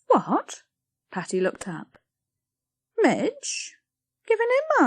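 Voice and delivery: a hint of pleased mother; pleased Patty. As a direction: glad to be rid of it. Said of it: "She sounded pleased".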